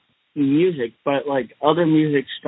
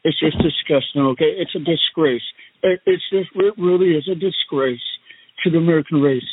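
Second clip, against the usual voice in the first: Donald Trump impression. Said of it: "and I'm the Donnie Trump".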